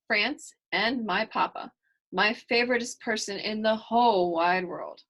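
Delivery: lively storybook reading voice; reading to children. A narrator's reading. Reader voicing Kylie's story for young listeners, lively storybook reading. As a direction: read it to the kids with bright energy.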